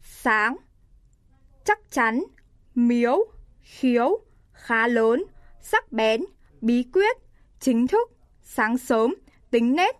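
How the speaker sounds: rising sắc tone on each word, clear and careful; teacher's rising-tone drill; sắc tone demo. Shown as a demonstration. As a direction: lift each word up sharply, modelling the sắc tone. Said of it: "Sự khác biệt của thanh sắc và huyền".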